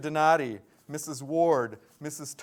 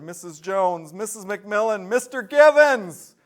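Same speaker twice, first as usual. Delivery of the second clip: names rattled off in one breath, getting louder to a near shout; one breath rush; 2 semitones higher, 8 dB louder than usual. Real, not acted. Announcer reading teacher winners in one breath, building loud. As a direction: race through the list and build to a yell. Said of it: "One breath".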